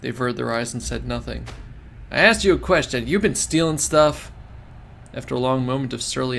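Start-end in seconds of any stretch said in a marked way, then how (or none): 2.1-4.3 stern demand. Acted. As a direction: press them hard for an answer. Susumu confronting his men.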